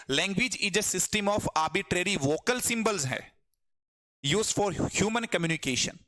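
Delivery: very slow, each word spaced; slow definition. Shown as a demonstration. Teacher reciting the definition slowly to students. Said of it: "reciting definition slowly".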